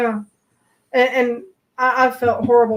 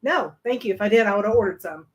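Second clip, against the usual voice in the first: quoted sarcastic refusal; faster than usual. Retold or imitated. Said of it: "I went".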